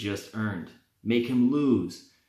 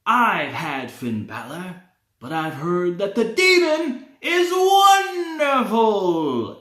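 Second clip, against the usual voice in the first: slow, much higher yelled delusional voice; Matt Hardy impression; 8 semitones higher, 7 dB louder, slower than usual. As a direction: screech it like an unhinged wrestler. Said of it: "Have Matt Hardy say".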